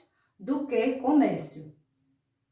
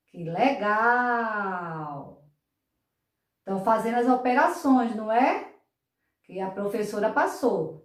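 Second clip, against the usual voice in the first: puppet voice. Acted. Puppet keeps talking to kids.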